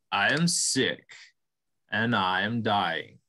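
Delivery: slow, low and weary; weak dying buffalo. Acted. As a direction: let the life drain from it.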